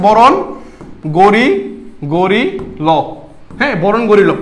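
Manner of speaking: "গরিল" drawn apart as Chittagong "gori... lo"; Chittagong dialect. Shown as a demonstration. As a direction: teach the Chittagong form "বরণ গরিল" in separate pieces. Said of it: "Chittagong ভাষায় বলা হয়েছে". (চাটগাঁইয়া উচ্চারণে ভেঙে ভেঙে "গরি... ল")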